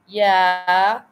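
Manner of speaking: a drawn-out, rising mock yeah; mock clueless yes. Mocking the host who answered the wrong question, with a drawn-out clueless yeah. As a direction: play the host who agrees without listening. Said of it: "and the person goes".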